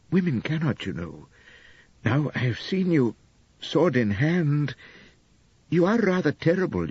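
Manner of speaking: a gentle hint of a doting young wife; lightly voiced young wife, adoring. Narrator voices Elspeth.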